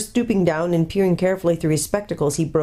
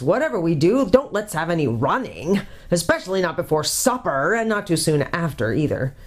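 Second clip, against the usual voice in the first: lightly voiced ponderous bear; a hint of a food-loving bear, pleading; bulgy bear; 2 semitones higher than usual. Bears objecting to running near supper, lightly voiced.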